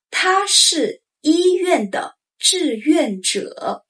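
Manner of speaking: 他是医院的志愿者 slow and careful; slow model sentence. Shown as a demonstration. Teacher modeling the example sentence, slow. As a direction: stretch 他是医院的志愿者 out. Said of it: "For example".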